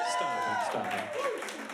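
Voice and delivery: very high squealing stop it; mock shriek. Comic scolding the doubting audience, very high squeal. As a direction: squeal it to the crowd. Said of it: "mock scolding the audience".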